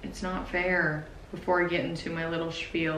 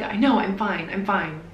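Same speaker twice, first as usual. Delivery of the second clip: mock snapping, a little louder; mean tone; 6 dB louder than usual. Snapping at her worried mom and sister, mean tone. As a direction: snap back meanly at her. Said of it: "in such a mean tone".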